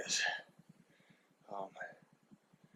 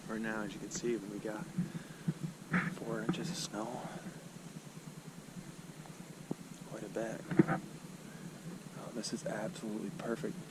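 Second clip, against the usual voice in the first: whispering; 7 dB quieter than usual. Real, not acted. Whispering in the woods.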